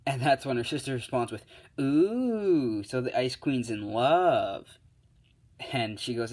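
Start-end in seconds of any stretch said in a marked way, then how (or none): 1.8-4.8 teasing singsong. Acted. Sister teases.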